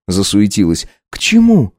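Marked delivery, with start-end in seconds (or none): 1.1-1.7 put-on high young wife voice, taken aback; lifted, incredulous young woman; Katya, startled wife. Wife asks her husband to repeat himself.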